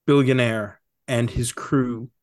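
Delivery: dramatic movie trailer narration; horror trailer voice. Acted. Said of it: "bust out those golden pipes".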